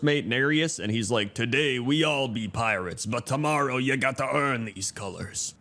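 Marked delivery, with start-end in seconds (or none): 1.3-5.5 lightly voiced pirate quote; hint of pirate. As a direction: read it as a pirate's line, only lightly acted. Quoting a pirate character.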